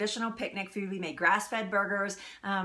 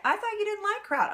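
teasing surprise; 12 semitones higher than usual. Retold or imitated. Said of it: "She was like".

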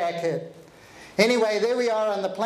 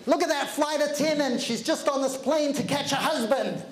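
higher, nasal-free mock whine, griping; whining complainer; 5 semitones higher than usual. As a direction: mimic a moaning passenger, pitched up. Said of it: "he starts complaining, whining and moaning".

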